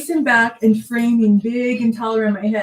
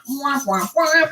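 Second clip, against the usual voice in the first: imitated stuck noise; 3 semitones higher than usual. Imitates hand being stuck fast.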